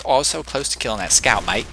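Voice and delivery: rough attempt at an Australian accent; amateur mock Australian. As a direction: put on a hammy Australian voice. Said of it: "say it with an Australian accent".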